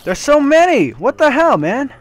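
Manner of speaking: very high panicked shriek; screaming at the swarm; scared horror game streamer. Real, not acted. Swarmed by enemies.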